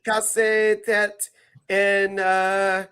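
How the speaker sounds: slow mock French announcer; lucha announcer. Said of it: "you sound like a lucha announcer".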